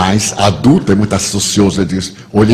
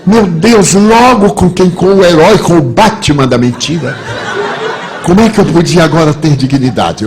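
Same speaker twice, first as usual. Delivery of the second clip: loud, high, hammed-up dismay; devastated lament; 5 semitones higher, 7 dB louder than usual. Caught-out adult laments his undoing, hammed-up despair. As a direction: wail it theatrically to the audience.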